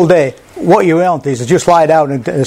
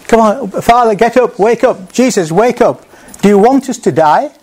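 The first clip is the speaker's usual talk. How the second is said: frightened disciples shouting higher to wake Jesus; panicked screaming; 5 semitones higher than usual. Retold or imitated. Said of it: "screaming at Ri-, Jesus".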